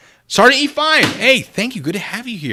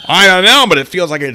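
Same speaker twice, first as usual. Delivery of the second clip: mock innocent; 8 semitones higher, 12 dB louder than usual. Real, not acted.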